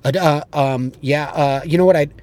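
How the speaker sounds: halting, fumbling fillers; stuttering demo. Shown as a demonstration. Coach showing what stuttering through a rebuttal sounds like, fumbling. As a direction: fumble for words on purpose. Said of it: "you don't stutter".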